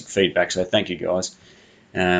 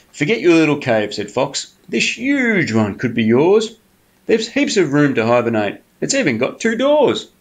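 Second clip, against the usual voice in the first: higher, coaxing sly fox voice; 4 semitones higher than usual. Acted. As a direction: sweet-talk the bear like a cunning fox. Fox sells the tunnel.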